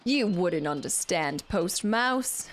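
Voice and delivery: put-on English drifting toward Australian; self-important landlord in a wobbly English accent; muddled English accent. Mouse explaining landlord's work, in muddled English-Australian accent. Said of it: "like, New York to Australian to English".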